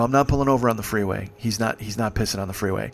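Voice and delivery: firm refusal. Retold or imitated. First refusal to pull over.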